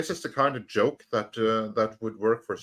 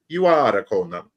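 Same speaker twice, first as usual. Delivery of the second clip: louder mock Italian producer; Dino De Laurentiis; 7 dB louder than usual. Producer seeing Arnold on set, loud accented proclamation. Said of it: "he was like".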